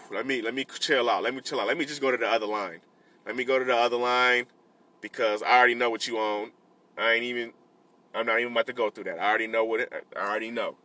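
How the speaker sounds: quiet self-talk to stay cool; soft, calming words to himself in the checkout line; calm inner voice. Retold or imitated.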